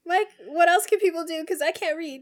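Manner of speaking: high, loud whiny complaint; mock pained cry. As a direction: wail about the sand. Still blinded by sand bit.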